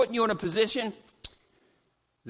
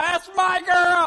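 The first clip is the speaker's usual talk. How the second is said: slow, high proud shout; a parent hollering to his daughter on stage, proud shout; 8 semitones higher, 5 dB louder, slower than usual. Retold or imitated. Stretch it out, high and loud. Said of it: "So to holler about".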